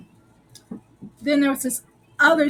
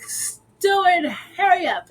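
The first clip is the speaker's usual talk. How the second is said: high, raised-voice impatient call; retold urging; 7 semitones higher, 4 dB louder than usual. Crew hurrying Stewart during a break-in, mock impatient call.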